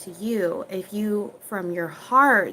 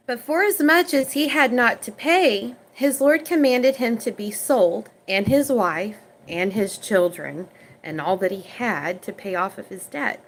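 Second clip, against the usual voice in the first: measured Bible reading, a bit louder; scripture reading; 3 dB louder than usual. Acted. Preacher reading the parable aloud to viewers, measured.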